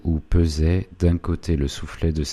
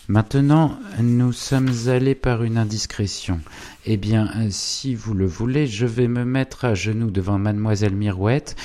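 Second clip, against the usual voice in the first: higher, eager bargaining; scheming clerk; 6 semitones higher than usual. A narrator's reading. Goupil bargaining with Savinien, higher eager voice. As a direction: sell the deal, pleased with himself. Goupil proposes his public apology.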